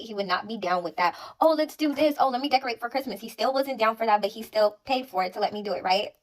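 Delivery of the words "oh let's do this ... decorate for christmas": high, quick bubbly suggestions; mock her own cheerful pitch; imitating eager girlfriend, high and fast.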